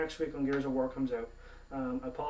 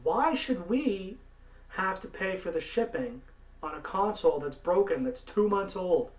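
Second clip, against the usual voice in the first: raised, drawn-out indignant question; exasperated protest, pitched up; indignant demand; 5 semitones higher than usual. Real, not acted. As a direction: demand an answer, stretching the opening words. Ranting about paying for shipping.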